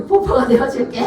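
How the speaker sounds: laughing imitation of husband's line; amused retold promise. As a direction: quote breaking into laughter. Repeats husband's silly word, laughing.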